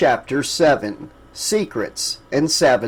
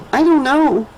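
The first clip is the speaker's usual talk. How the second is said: put-on child whisper; 11 semitones higher than usual. A narrator's reading. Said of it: "Toy whispered".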